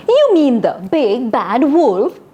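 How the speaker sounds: slow, snooty question. Shown as a demonstration. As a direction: look down on the silly wolf story, slowly. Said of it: "Come on, let's do this".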